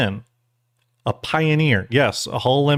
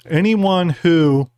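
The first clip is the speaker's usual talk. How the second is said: talking round a jelly bean; slow words past a bean in the mouth; mouth full; 4 semitones higher, 3 dB louder, much slower than usual. Real, not acted. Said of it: "I got this bean in my mouth".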